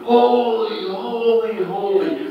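mock scream, high and loud, drawn out; retold angelic cry. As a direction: cry it out slowly like awed angels. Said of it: "they're screaming".

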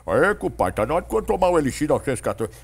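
fast, loud folksy radio character; hammy rural compadre selling tonic; country buddy voice. Acted. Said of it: "com três vozes".

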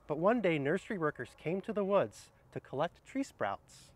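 cheerful read-aloud storytelling; reading to children. Acted. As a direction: read it out like story time for kids. Reads picture book aloud.

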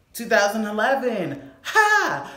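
laughing as she reads the year; breaking into a laugh; laughing disbelief. Real, not acted. Laughing at her old post.

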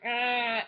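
mock groan of disgust; low, grumbling "ugh"; disgusted dwarf groan. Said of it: "and they're like".

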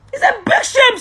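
real tearful outcry; tearful cry. Real, not acted. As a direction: wail the shame out, near tears. Crying out the shame.

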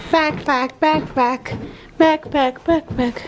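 backpack spoken clearly and slowly, each syllable crisp; saying the word for a child. Shown as a demonstration. Mom teaching her child to say backpack, said clearly. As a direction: model backpack so the child can copy it. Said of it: "I think it's backpack".

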